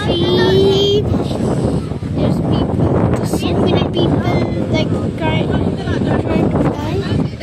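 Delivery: loud, eager pointing out; shouting over to friends about the divers; excited calling out. Real, not acted. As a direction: call it out like you can't believe it.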